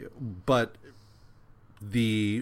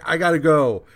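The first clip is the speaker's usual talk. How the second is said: higher, louder hammed-up urgency; urgent exit; 6 semitones higher, 10 dB louder than usual. Johnny hurrying off after his epiphany, mock urgent. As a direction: rush it out like you're already leaving. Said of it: "And he's like".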